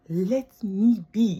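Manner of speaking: slow, drawn-out whispered plea. Real, not acted. Whispering slowly to critics to leave her alone. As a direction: breathe it slowly, begging.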